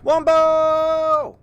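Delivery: loud, very high whoop; high drawn-out shout. Pretend. Streamer trying out Wumbo on the game, high drawn-out shout. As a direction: belt it out high, holding the last vowel. Calls out a silly word.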